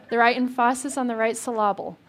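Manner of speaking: "emphasis" said em-FAH-sis, "syllable" said sil-LAH-bul; misplaced stress. Shown as a demonstration. Preacher repeats the mom's saying, jokey misplaced stress. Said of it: "Put the right emphasis".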